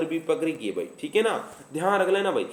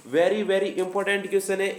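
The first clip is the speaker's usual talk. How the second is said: slow emphatic drawl; much slower than usual. Shown as a demonstration. Teacher's drawn-out catchphrase.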